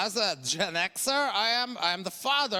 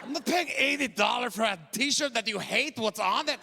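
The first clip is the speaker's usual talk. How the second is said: shouting dad; 3 semitones higher than usual. Retold or imitated. Shouted rant.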